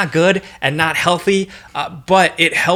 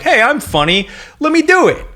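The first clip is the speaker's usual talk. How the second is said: higher, cocky wannabe-comic imitation; mock eager; 11 semitones higher than usual. Mocking people who think they can do stand-up, mock eager. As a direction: pitch climbs as you imitate an overeager volunteer. Mimicking overconfident would-be comedians.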